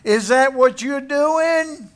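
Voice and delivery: preacher plays the father who would cuss out his son, scolding loudly; mock cussing out. Father that never was, berating the ragged son, mock angry. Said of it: "cuss him and say".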